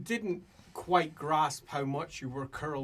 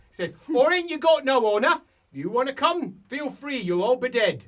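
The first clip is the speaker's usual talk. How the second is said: high, loud, cocky character voice; threatening dwarf; 8 semitones higher, 9 dB louder than usual. Acted. Dwarf warning the Slayer about treaties, high loud threat. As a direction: taunt the intruder with singsong menace.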